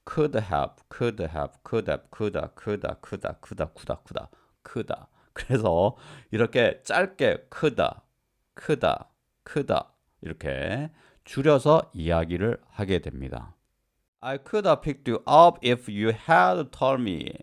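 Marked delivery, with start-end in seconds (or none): 0.0-4.3 "could have" repeated fast with have weakened to "a"; "could have"를 "쿠다"처럼 빠르게 반복; reduced coulda drill. Shown as a demonstration. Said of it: "강세가 없는 기능어". 14.2-17.3 slow, raised example sentence; slow example read. Shown as a demonstration. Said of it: "example sentence read slowly".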